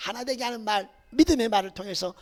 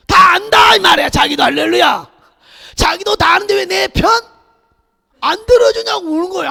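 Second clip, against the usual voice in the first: much higher, louder shouted preaching; fiery preaching; 7 semitones higher, 12 dB louder than usual. Acted. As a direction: preach it at full force to the congregation. Preaching at full force.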